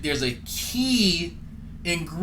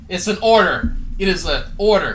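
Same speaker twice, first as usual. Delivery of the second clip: mock command; 3 semitones higher, 5 dB louder than usual. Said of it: "I am demanding".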